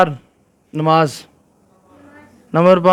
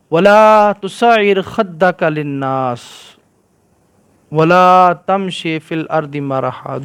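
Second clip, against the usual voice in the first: Quran recitation. Acted. Teacher reciting the verse to the children in Quran style.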